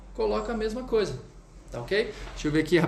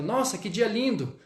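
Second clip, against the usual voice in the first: "Nossa, que dia lindo" exclaimed on raised pitch; exclamatory intonation; 4 semitones higher than usual. Shown as a demonstration. Teacher showing students exclamation intonation, exclamatory. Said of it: "você vai adicionar uma exclamação".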